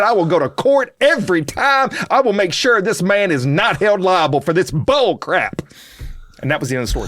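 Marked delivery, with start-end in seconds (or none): 0.0-5.6 defiant vow. Retold or imitated. Vowing defiantly.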